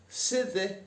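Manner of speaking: high, punchy Northern "Sithe"; broad Yorkshire "Sithe". Shown as a demonstration. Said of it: "we just say".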